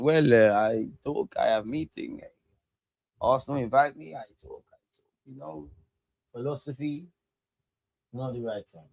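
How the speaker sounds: lightly put-on French accent, Wenger style; a hint of a French manager's accent, halting; Arsene Wenger accent. Fan jokes about doing Sky Sports interview in Wenger's French accent. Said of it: "my best Arsene Wenger accent".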